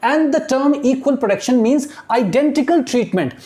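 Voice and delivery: very slow, word by word reading; slow classroom dictation of English text. Shown as a demonstration. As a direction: read it out slowly so students follow. Teacher dictating slowly.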